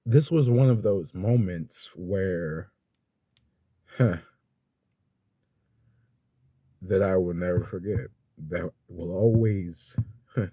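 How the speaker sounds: slow, tearful, breaking up; holding back real tears; crying. Real, not acted. Telling viewers about mom's gift while really crying. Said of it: "oh, I'm crying".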